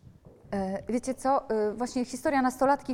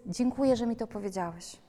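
sincere thanks. Shown as a demonstration.

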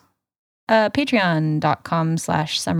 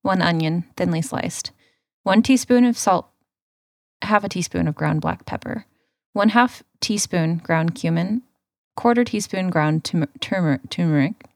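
recipe read. Acted. Reads recipe over music.

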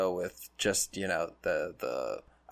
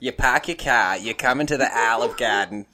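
mock Boston accent; 6 dB louder than usual. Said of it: "Boston accent".

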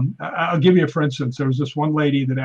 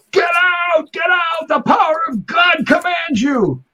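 much higher, loud, slow commanding shout; fervent exorcism shout; 4 dB louder, slower than usual. Retold or imitated. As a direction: cast out the demon with full faith. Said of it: "she was freaking spectacular".

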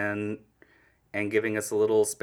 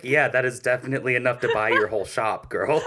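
laughing amazed; 3 semitones higher, 5 dB louder than usual. Retold or imitated. Quoting self, amazed.

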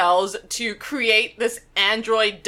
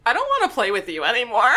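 Andy Toy Story voice; much faster than usual. Retold or imitated. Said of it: "Andy Toy Story voice".

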